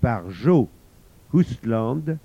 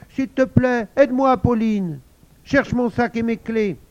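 higher, pleading in a hurry; flustered mum; 8 semitones higher, 4 dB louder than usual. Acted. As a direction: ask for help while rushing. Flustered mother asks help. (maman pressée qui supplie)

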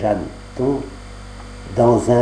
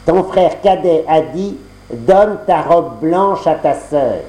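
marâtre, lente et un peu plus aiguë; voix de la marâtre; 4 semitones higher, slower than usual. Acted. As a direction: fais traîner la réponse, avec malice. La marâtre répond à Jeanneton. (marâtre qui trompe Jeanneton, ton lent et sournois)

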